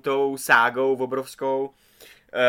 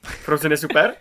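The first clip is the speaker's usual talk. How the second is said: louder, rising disbelief; incredulous echo question; 3 semitones higher, 5 dB louder than usual. Real, not acted. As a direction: throw it back as a doubting question. Zpochybňuje názor kolegy na Frozen. (nevěřícná otázka)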